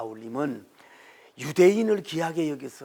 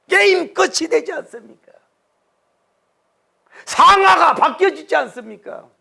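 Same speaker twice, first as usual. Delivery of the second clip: high, loud shouted sermon; fiery preaching; 10 semitones higher, 11 dB louder than usual. Real, not acted. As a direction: preach it at full force. Preaching at full force.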